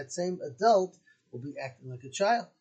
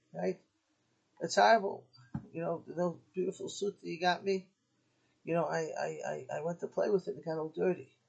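a son who mildly hams up his tears; mock crying son; 3 semitones higher than usual. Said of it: "he comes in crying".

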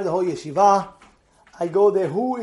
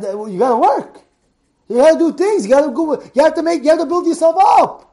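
ordinary talk

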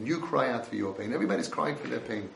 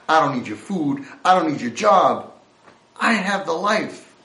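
mild mock defiance growing louder; defiant street kid; 5 dB louder than usual. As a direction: push back at the offered help. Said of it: "he says".

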